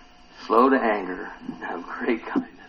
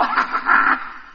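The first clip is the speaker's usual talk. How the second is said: mock gloating laugh. Preacher plays Jonah relishing doom, mock laugh. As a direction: laugh it out after the threat.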